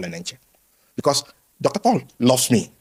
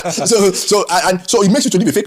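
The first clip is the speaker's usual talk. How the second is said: laughing; 7 semitones higher, 4 dB louder than usual. Real, not acted. Laughing while telling.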